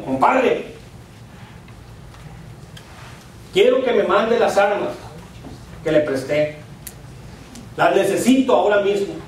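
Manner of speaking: firm, mildly irritated demand; mock angry reading. Angry husband reads his compadre's note aloud, mildly cross. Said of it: "leyendo en ese tono, enojado".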